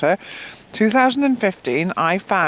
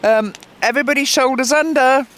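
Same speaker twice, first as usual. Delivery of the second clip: official calling out; 5 semitones higher than usual. Retold or imitated. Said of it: "somebody said".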